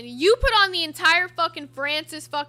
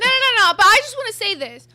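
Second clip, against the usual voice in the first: loud, high cutting in; insistent; 6 semitones higher, 9 dB louder, faster than usual. Real, not acted. Cutting in to defend her reaction, loud and insistent. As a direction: raise your voice to take the floor.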